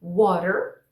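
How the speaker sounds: "Water" with a quick tapped flap T; American "Water", T turned into a flick of the tongue; flap T demo. Shown as a demonstration. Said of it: "vamos ver alguns exemplos aqui".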